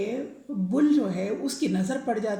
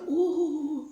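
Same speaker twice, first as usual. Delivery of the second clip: startled oh; 5 semitones higher than usual. Acted. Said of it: "کہتا ہے،".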